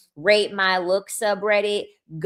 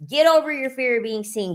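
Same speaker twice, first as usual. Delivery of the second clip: fired-up higher repeat; 5 semitones higher than usual. Retold or imitated. Repeated pep talk.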